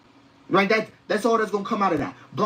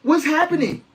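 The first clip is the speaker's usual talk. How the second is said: higher, baffled asking; incredulous; 7 semitones higher than usual. Real, not acted. Host to viewers, baffled and higher. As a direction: ask it twice, lost for words.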